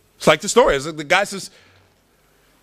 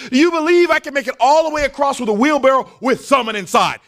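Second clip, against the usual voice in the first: showman calling out; 9 semitones higher than usual. Acted. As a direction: throw the dare down to the crowd. Walker calls to crowd.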